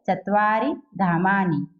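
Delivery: चत्वारि धामानि ending on short, light "i"; short final i. Shown as a demonstration. Teacher correcting the long reading for pupils, short final i. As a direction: keep the last vowel of चत्वारि and धामानि brief. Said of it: "ऐसा नहीं है।".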